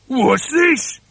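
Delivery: startled husband's cry; shocked gasp. A narrator's reading. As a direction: gasp it out in disbelief. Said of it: "gasped Mister Twit".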